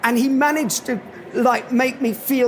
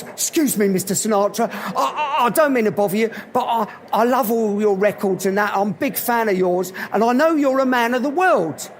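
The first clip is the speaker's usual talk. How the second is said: lightly played Cockney accent; hesitant, deferential Cockney approach; Cockney guy. Cockney fan approaches a famous singer at dinner, light Cockney accent. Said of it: "little English Cockney guy".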